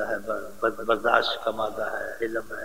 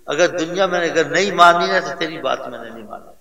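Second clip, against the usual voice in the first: a touch louder, teasing his mother fondly; playful teasing; 3 semitones higher, 4 dB louder than usual. Retold or imitated. Son teasing his mother, playfully louder. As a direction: tease her like a loving son who won't give in. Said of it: "کہتا تھا".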